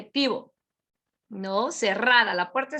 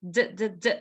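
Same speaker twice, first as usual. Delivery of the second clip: short low voiced d taps; three quick, low d bursts; letter D sound; 4 semitones lower, faster than usual. Shown as a demonstration. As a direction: repeat a bare d sound, duh. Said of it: "With the letter D".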